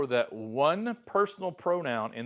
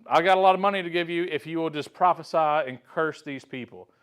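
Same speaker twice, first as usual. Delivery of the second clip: eager king Balak; 4 semitones higher, 5 dB louder than usual. Retold or imitated. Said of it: "Balak is like".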